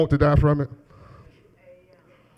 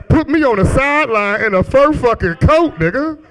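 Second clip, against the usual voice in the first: excited dreaming; 4 semitones higher than usual. Retold or imitated. Comic dad dreaming to the crowd, building excitement. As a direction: hype up the dream like a sports dad.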